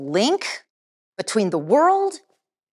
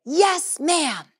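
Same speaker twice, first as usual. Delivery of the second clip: high, loud yes ma'am; loud response; 7 semitones higher than usual. Shown as a demonstration. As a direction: answer out crisply like a student. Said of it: "you're gonna say".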